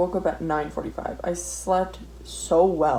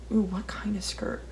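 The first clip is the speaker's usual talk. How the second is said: excited whisper; 6 dB quieter than usual. Real, not acted. Excited musing.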